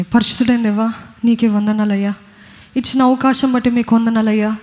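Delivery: earnest spoken prayer to God; preacher leading the church in closing prayer, earnest. Acted.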